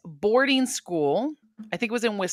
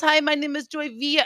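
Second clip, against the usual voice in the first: higher-pitched, hammed-up Latina accent; put-on Latina accent; 5 semitones higher than usual. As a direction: introduce yourself in a mock Latina accent. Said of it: "I don't suddenly get more Latina".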